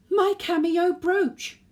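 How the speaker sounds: high, loud, drawn-out shriek of alarm; sudden scream. Acted. Granny discovering her brooch is gone, screaming. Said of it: "let out a sudden scream".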